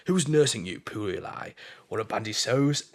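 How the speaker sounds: slow down into a put-on villain's sneer; Daniel's goading. Acting out Daniel mocking poor Eli, goading. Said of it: "just goading one".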